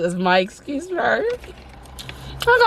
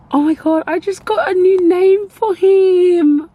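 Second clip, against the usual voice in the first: laughing; 7 semitones higher, 5 dB louder than usual. Real, not acted. Laughing-crying at own joke.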